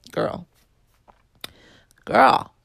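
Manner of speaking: sassy emphatic call. Real, not acted. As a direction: call it out, building up. Building emphatic address.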